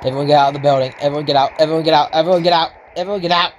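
repeated urgent call, climbing as it goes; urgent warning. Pretend. Player warning everyone out of the building, urgent call.

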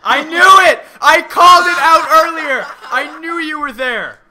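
high, very loud gotcha yell; triumphant shout. Real, not acted. Catching the friend's hidden girlfriend out, triumphant shout. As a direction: shout it out in real vindication.

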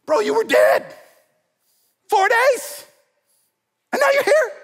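very high, loud giddy disbelief; astonished party guest. Retold or imitated. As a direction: squeal in amazement at the risen man. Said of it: "Just imagine that party".

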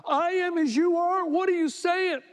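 incredulous shout. Real, not acted. Preacher aghast at Jehoshaphat's promise, shouting it back. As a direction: throw the quote back in outrage.

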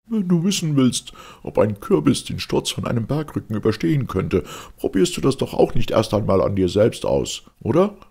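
curt, indignant friend; irritated and brusque. A narrator's reading. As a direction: lecture him sharply, losing patience. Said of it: "ungehalten und barsch".

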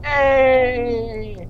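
very high cheer; happy cheer. Real, not acted. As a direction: squeal with joy.

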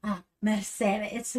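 slow, drawn-out Spanish accent. Shown as a demonstration. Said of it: "in the Spanish voice of yours".

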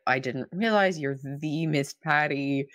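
mildly hammed-up grovelling, drawn out; grovelling apology. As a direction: plead slowly with a touch of mock reverence. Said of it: "he's groveling".

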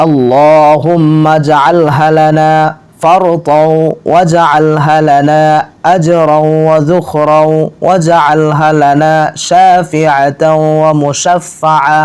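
slow, elongated syllables on a level tone; measured devotional chant; Arabic prayer recitation. Acted. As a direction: recite slowly, stretching each long vowel.

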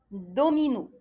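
normal talking voice

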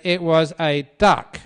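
loud, forceful quarrelling husband; mock insistent husband. Husband arguing with his wife over the bird, loud insistence. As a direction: raise your voice to overrule her.

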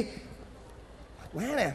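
breathless, drawn-out whisper; tired whisper. Acted. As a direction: sigh it out, worn out. Tired after fake crying.

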